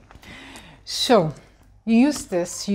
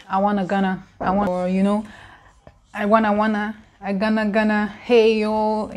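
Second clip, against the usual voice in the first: slangy 'I wanna, wanna, gonna' in a fake American voice; 'I gonna, gonna, hey, yo' tossed off like a fake Yankee; mock American accent. Shown as a demonstration. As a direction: ham up a wannabe American, laughing. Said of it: "if you want American accent".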